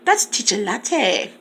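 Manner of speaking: "Teacher Latte" said slowly and carefully; slow down to get the name right; slow correction. Shown as a demonstration. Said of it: "Sorry, baby".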